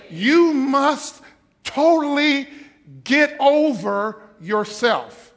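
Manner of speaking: lightly voiced proud aristocrat; puffed-up believer showing off; haughty noble. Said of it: "You better quit talking like that".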